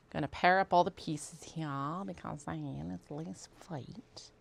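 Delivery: put-on Southern twang. Sewist pairing up pieces, slipping into a Southern twang. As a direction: slip into a playful Southern twang. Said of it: "I don't know why the twang".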